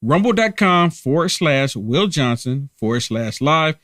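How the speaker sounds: spelled out slowly for viewers to type; slow it down so they can write it; slow careful repeat. Real, not acted. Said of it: "Did y'all get that?".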